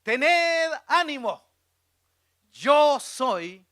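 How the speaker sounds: loud, slow, commanding proclamation; high, ringing preacher's declaration; Jesus. Acted. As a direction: call it out with authority, drawing words out. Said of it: "Jesús les habló diciendo".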